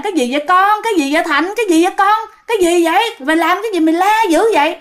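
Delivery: acted family alarm; alarmed questioning. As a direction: fire anxious questions at the child. Relatives alarmed by child's screaming.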